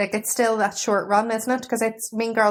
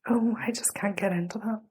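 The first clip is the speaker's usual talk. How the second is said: unvoiced dismissive whisper; 5 dB quieter than usual. Real, not acted. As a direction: breathe it out, no voice. Dismissing the show.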